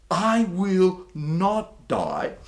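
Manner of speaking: slow, firm, every word planted; bold declaration. Retold or imitated. Pastor voices the psalmist declaring to God, slow and firm. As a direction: declare it like a settled fact. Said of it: "He comes up and he says this".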